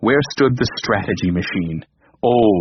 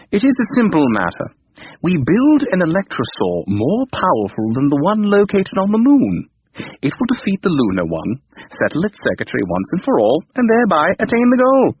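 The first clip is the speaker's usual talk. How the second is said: brisk computer voice; 7 semitones higher than usual. A narrator's reading. Computer explains plan.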